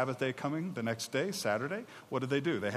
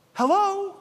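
sarcastic hello; 7 dB louder than usual. Acted. Mocking the forgetful people.

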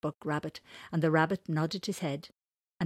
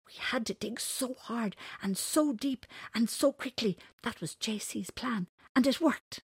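higher, lightly voiced shy creatures; shy little voices; 7 semitones higher than usual. Burrowers proudly add their part, shy high voices. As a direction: chime in with a touch of shyness. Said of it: "A chorus of shy voices added".

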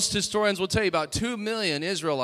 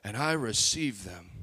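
much lower, softer, slow soothing voice; gentle God voice; 7 semitones lower, 5 dB quieter than usual. Retold or imitated. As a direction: speak as a tender fatherly God. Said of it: "you think that the Lord would respond and say".

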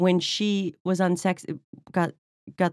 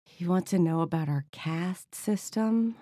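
hostess line; 5 dB quieter than usual. Retold or imitated. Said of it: "in particular for my line".

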